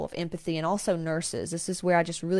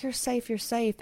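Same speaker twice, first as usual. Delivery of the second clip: put-on hushed, soothing words to a scared baby; calm the baby down gently; 5 semitones higher than usual. Seer soothing screaming baby.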